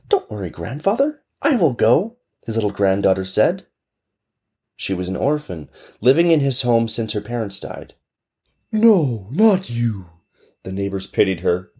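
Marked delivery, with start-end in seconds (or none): 0.1-2.2 put-on little girl. Granddaughter voiced. 8.7-10.1 pitying neighbor. Acted. Neighbors voiced.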